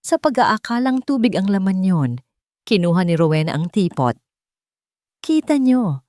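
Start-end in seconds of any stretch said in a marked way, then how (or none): 5.2-6.0 shout. A narrator's reading. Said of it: "sigaw niya".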